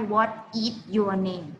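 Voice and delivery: What is your name slowly split word by word; wrong separated form. Shown as a demonstration. Teacher contrasting the wrong split phrasing. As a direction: spell out each word stiffly. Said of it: "ไม่ใช่".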